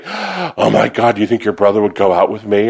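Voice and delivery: lightly voiced eager date; mock swooning date. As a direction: imitate a smitten date asking about the brother. Guys I dated asking about brother.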